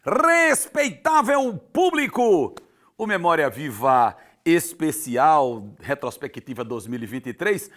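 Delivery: slow, drawn-out circus ringmaster. Acted. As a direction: announce the clown like a circus barker. Host announces clown entrance.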